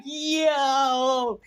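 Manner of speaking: very high, loud startled shout; shocked yell. Retold or imitated. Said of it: "I was like".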